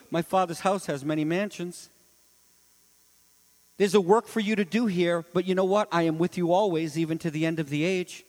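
Jesus comforting the believer; tender promise. Acted. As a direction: promise it gently.

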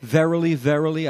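"Verily, verily" with both words stressed; doubled for emphasis. Acted. Jesus making a serious point, emphatic "Verily, verily". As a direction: give each "Verily" its own weight. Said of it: "the doubling up of "verily".

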